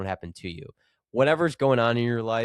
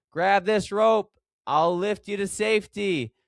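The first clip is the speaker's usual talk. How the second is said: mild mock shout; 9 semitones higher, 4 dB louder than usual. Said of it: "the pilot shouted down".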